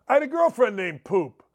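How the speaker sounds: normal talking voice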